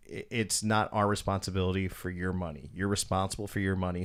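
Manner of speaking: low, soft retold explanation; polite. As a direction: let him down gently, voice kept down. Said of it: "trying to be as polite to him as possible".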